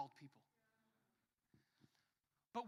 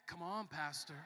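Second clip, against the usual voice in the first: drawn-out mocking reproach; derogatory; slower than usual. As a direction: imitate a scolding put-down, stretched out slowly. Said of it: "in, like, a derogatory way".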